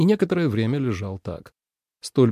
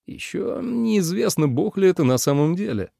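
objecting brother; 7 semitones higher than usual. A narrator's reading. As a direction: object with sceptical weight. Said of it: "возразил Джу Синь". (брат возражает, с сомнением)

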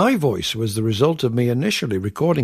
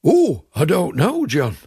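mock-modest, slow drawn-out "Oh"; John impression; 4 semitones higher than usual. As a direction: imitate him with a higher, lingering start. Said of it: "that was just like you, John".

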